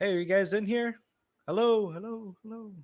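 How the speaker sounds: high-pitched yell, hollering out. Playing a character who lands in a dark chamber: yelling in character. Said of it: "would yell out".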